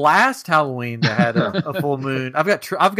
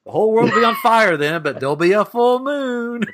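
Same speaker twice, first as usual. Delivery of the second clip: laughing; 8 semitones higher than usual. Real, not acted. Joking about the future, laughing.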